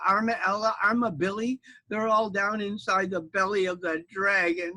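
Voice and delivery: high critter voice; breathless little mama; armadillo mama. Acted. Armadillo mama telling knight her babies are inside, high.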